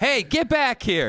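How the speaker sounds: long, high-pitched yelling. Speaker retells a woman shouting after a man fleeing, retelling a woman yelling. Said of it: "she starts yelling".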